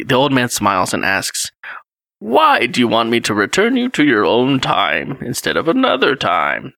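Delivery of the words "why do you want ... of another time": put-on old man voice. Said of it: "That's my old man voice".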